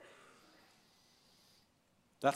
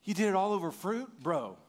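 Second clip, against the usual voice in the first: exasperated scolding; 5 semitones higher than usual. Retold or imitated. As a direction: chew Adam out over the fruit. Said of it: "look at Adam and go".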